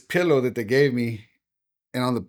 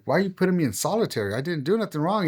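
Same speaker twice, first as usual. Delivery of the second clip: higher-pitched, quick protest; freaking out; 5 semitones higher, faster than usual. Retold or imitated. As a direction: retell a mildly panicked plea. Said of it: "You know, I'm freaking out".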